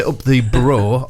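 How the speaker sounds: slow, drawn-out BOROUGH with a long final O; BOROUGH said the unlocal way. Shown as a demonstration. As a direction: stretch BOROUGH, ending on a full "oh". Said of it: "he didn't say".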